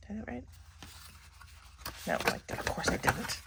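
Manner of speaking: talking while chewing gum; words around a wad of gum. Real, not acted. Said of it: "I can't chew, talk and chew gum at the same time".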